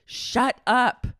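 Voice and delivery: exasperated rant. Real, not acted. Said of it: "Can one pregnant person just".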